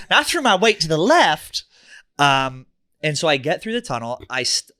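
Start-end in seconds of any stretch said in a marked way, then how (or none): 0.1-1.6 laughing. Real, not acted. Laughing at a joke.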